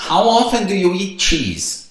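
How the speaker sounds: slowed classroom English; slow model question. Shown as a demonstration. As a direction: read it slowly for the student. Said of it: "aqui na primeira pergunta". (pergunta lenta de professor)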